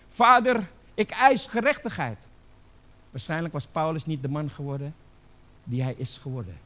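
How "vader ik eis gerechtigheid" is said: loud, high demanding cry; acted shout. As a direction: cry out to God, demanding justice. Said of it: "geschreeuwd had terwijl hij gestenigd werd". (geschreeuwde eis, nagespeeld)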